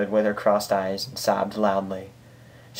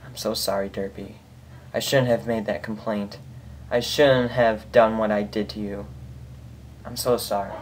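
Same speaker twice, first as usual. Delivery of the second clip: soft, understated sorrowful apology; a touch of quiet grief, barely voiced; tearful apology; 5 dB quieter than usual. Hooded pony apologizing over Derpy's body, softly sorrowful. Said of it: "cried silent tears".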